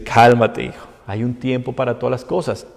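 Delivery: quiet, low, gentle reassurance; soft paternal voice; God calming. Retold or imitated. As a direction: soothe the believer patiently. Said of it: "Dios le dice".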